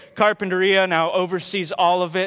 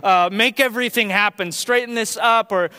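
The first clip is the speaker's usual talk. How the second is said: proper request; 3 semitones higher, 3 dB louder than usual. Retold or imitated. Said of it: "instead of saying".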